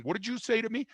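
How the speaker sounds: pitched high, a mock snap back; mock angry retort. Man confronted by a stranger, mock angry retort. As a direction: play the hothead picking a fight. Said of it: "Don't get angry".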